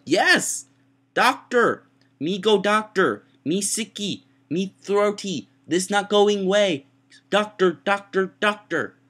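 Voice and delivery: high, loud caveman-talk outburst; hammed-up, drawn-out desperate shouting; exasperated pleading. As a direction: belt out each plea slowly in simple baby talk. Acts out begging for the doctor.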